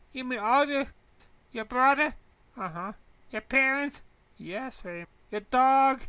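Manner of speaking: high, loud rapid-fire questions; stunned, checking each one; shocked disbelief. Acted.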